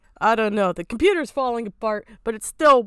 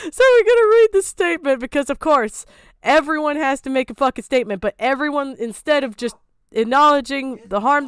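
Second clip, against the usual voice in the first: fast angry rant; 3 semitones higher, 5 dB louder than usual. Real, not acted. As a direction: rush it out in irritation. Ranting about statements.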